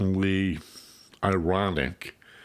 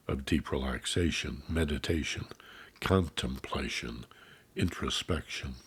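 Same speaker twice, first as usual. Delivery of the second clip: soft, lowered voice with space between phrases; meditative calm; 4 semitones lower, 6 dB quieter than usual. Shown as a demonstration. Host easing beginners toward deep relaxation, softly calming. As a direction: let each item sink gently quieter.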